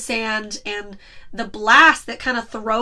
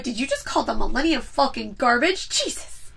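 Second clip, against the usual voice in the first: mock outraged fan. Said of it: "every Star Wars fan was like".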